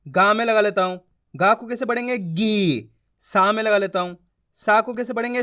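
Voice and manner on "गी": गी with a drawn-out ee; long ī. Shown as a demonstration. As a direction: stretch the vowel of गी. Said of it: "खींच खींच के पढ़ना है".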